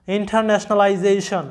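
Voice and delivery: ইন্টারন্যাশনালাইজেশন said slowly, syllable by syllable; slow the word down so every syllable is heard. Shown as a demonstration. Teacher slowing the word down for students, deliberate. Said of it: "এই শব্দের উচ্চারণটা আসতেছে কি?".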